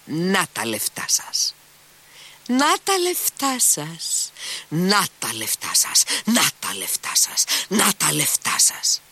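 slow, high, furious repeated cries; shrieking and panting. A narrator's reading. Captain tramples the money before Alyosha, shrieking and panting. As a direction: stamp out each "Να τα λεφτά σας!" with a shriek. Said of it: "ξεφωνίζοντας και λαχανιάζοντας".

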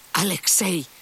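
called out high across a distance; father calling his son across the yard; calling from afar. A narrator's reading. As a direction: call his son from far off. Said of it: "του φώναξε από μακριά".

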